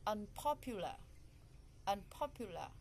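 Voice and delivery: "Unpopular" peaking on its second syllable; stress on second syllable. Shown as a demonstration. Teacher models "Unpopular" to locate the stress, second syllable stressed. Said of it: "on the second one".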